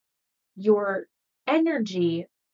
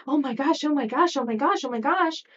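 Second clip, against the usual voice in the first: mock panic; 5 semitones higher, 3 dB louder than usual. Acting future-worry panic.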